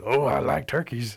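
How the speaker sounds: tempted wildcat with a lifted voice; eager wildcat. Acted. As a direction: draw it out greedily, savoring the idea. Hungry wildcat tempted by turkeys.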